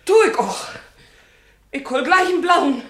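loud, high, furious threat; furious woman threatening to fetch the police; loud defiance. Acted. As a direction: shout that you mean it. Minna threatens to call police.

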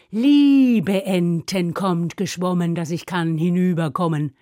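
low, slowish chant with a stretched opening; recited spell. Shown as a demonstration. Narrator reminds listeners of the correct spell, reciting. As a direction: recite the spell, leaning long on the first word.

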